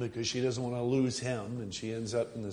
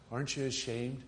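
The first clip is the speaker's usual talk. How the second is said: soft, quiet question; a compassionate, hushed reproach; gentle; 7 dB quieter than usual. Shown as a demonstration. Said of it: "there's a way of saying things".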